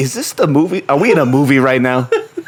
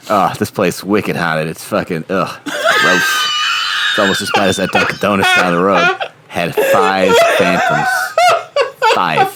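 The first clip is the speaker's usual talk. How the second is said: put-on Boston accent. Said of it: "I can't do a Boston accent".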